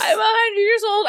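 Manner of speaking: high laughing cry. Real, not acted. Laughing at own old-lady taste.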